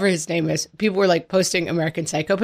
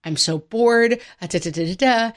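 put-on kid's meltdown; 3 semitones higher than usual. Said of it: "he just lost it".

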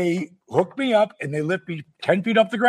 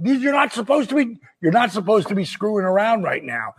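concerned; 3 semitones higher, faster than usual. Retold or imitated. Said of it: "he's got concern in his voice".

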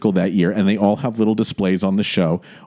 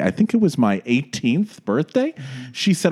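normal talking voice

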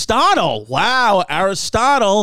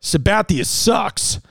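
mock yell; slower than usual. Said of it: "he yells to me and goes".

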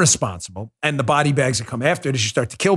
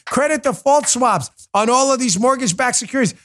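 higher, eager sudden recall; mock eureka, pitched up; imitating Joe remembering; 9 semitones higher than usual. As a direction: play the old co-host suddenly remembering it all.

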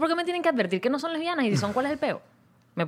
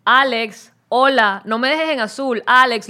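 louder, calling out to Alex; calling out loudly; 6 dB louder, much slower than usual. Retold or imitated. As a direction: call his name across the room. Calling Alex to answer her.

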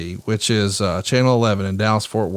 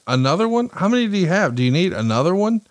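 a light mock of disbelief, higher; wife hearing of one more podcast, raised disbelief; incredulous wife; 6 semitones higher than usual. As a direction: play the wife amazed at another podcast.

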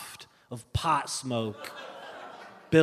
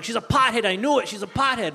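higher, agitated complaint; agitated dad; 5 semitones higher than usual. Acted. Dad calls mom about his daughter, agitated complaint. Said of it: "my dad calls my mom".

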